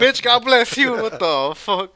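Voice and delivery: very loud, high-pitched outrage; retold indignant blow-up; mad. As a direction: throw the blessing back in anger. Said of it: "Why you sound so mad?".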